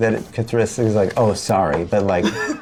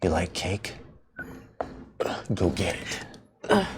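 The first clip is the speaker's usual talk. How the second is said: very quiet, slow, creepy, unnerving hushed whisper; 3 semitones lower, 10 dB quieter than usual. Voicing a character who whispers to a creature: unnerving whisper. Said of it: "I whisper to it in that, in that unnerving way".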